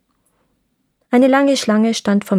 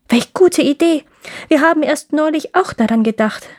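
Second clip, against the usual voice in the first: excited; 6 semitones higher than usual. Acted. Ladies of the court cheer.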